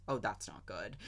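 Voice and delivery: mock-dry understatement with a laugh in it; dry, laughing through it. Quoting Obi-Wan on the roof, dry line with a laugh. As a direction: try to say it deadpan but crack up. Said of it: "Like, just in the driest accent".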